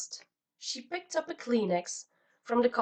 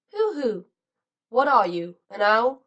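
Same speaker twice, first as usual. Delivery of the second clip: louder hooting punchline; 10 dB louder than usual. A narrator's reading. Narrator finishes joke loudly.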